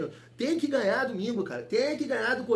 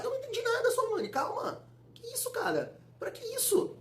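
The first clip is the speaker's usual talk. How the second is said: very high, soft squeal; squeaky, hushed protest; mock disbelief; 6 dB quieter than usual. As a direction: plead incredulously in a tiny high voice. Mock disbelief at commentator Sormani.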